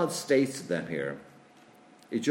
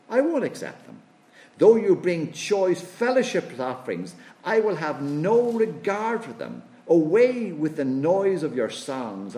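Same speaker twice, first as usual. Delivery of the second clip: forceful divine voice; 3 semitones higher, 4 dB louder than usual. Acted. Voices God loudly, higher.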